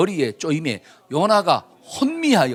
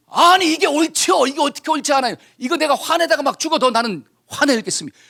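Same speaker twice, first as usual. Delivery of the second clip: Jonah's indignant retort; 8 semitones higher than usual. Acted. Jonah talking back to God about his anger, indignant and high-pitched. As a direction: argue back hotly in a raised pitch. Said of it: "그게 또 요나가 뭐라 그래요".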